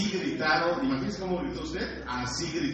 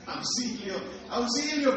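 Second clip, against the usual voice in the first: high hammed-up cries for help, girlish; preacher acts the frightened disciples calling for help; mock cry for help; 8 semitones higher than usual. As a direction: squeal for help like a scared teenager. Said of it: "qué gritaban?".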